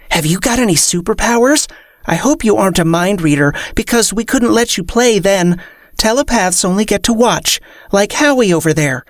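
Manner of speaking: high, bubbly fairy voice; chirpy little fairy. Acted.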